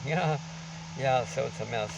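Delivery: muffled behind a mask; through a face mask. Real, not acted. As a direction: speak through a covering mask. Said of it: "excuse the mask we're covering".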